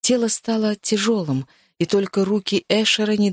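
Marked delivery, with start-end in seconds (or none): none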